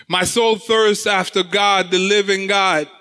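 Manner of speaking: preacher's slow echo of the verse; slow emphatic repeat. Shown as a demonstration. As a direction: let each word of soul thirsts after God land slowly.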